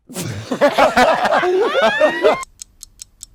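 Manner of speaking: loud, high burst of laughter; long, loud cackling laugh; screaming laughter. Real, not acted. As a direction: explode into shrieking laughter. Bursts out at accent attempt.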